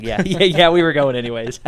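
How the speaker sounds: casual mighty men. Retold or imitated.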